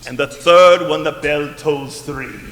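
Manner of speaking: raspy ghost voice. Acted. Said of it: "this raspy voice".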